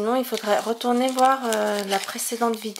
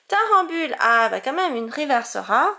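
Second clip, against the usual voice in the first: excited; 2 semitones higher, 5 dB louder than usual. Real, not acted. Pulls a reverse rare.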